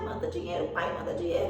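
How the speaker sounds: brusque, mocking demand, pitched below the complaint; curt, irritated mimicry of a son's demand; father's harsh reading. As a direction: read it as a rude demand. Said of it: "a entonação de voz, a forma que ela leu".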